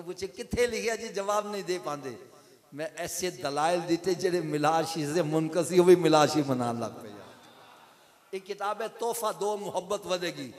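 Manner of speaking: loud, forceful sermon delivery; emphatic preaching. Acted. Preacher boasting of his book's proofs, emphatic and loud. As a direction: drive the claim home to the congregation.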